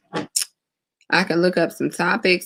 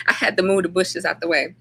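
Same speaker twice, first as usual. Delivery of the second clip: laughing. Real, not acted. Laughing at moving the bushes.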